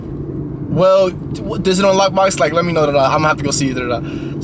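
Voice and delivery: squeaky imitation of a pushy buyer; high mimicking buyer. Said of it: "it was like".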